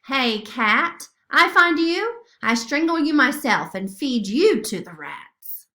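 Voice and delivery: loud, menacing threat; threatening growl. Acted. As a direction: snarl it at the cat like a brute. Rough man threatens the cat.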